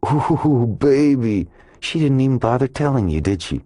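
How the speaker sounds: high-pitched, delighted jeering; gleeful bully taunt. A narrator's reading. Brockman taunts Bosch about what she kept from him, gleeful jeering. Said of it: "lit up with a bully's delight".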